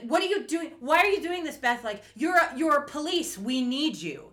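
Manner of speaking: high, loud exasperated appeal; retold urgent plea. Host acting Katya pleading with Beth, urgent. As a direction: imitate someone urgently demanding answers.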